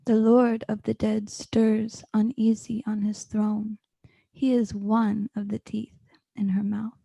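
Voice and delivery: ominous whisper. Acted. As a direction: hush it like a dark secret. Whispered lines in poem.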